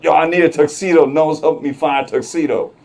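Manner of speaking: mock yell. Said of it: "he's yelling at this older Indian guy".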